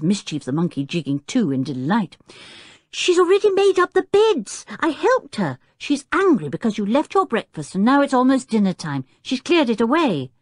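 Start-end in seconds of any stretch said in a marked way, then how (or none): 2.9-10.3 high, loud, insistent explanation; excited boy, starting at the top; shouting child. A narrator's reading. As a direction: shout it at a forgetful father. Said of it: "shouted Tinker".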